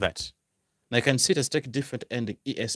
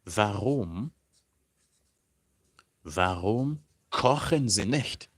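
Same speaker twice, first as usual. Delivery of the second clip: slow model question; slower than usual. Shown as a demonstration. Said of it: "You would ask the person".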